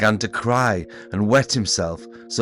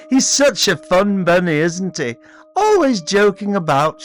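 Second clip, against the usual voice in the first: chuckling; 10 semitones higher, 7 dB louder than usual. A narrator's reading. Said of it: "she chuckled".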